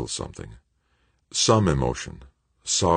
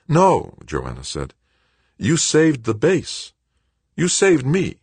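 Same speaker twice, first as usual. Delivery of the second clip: insistent; 11 semitones higher, 4 dB louder, slower than usual. A narrator's reading. Joanna insists, consoling her son.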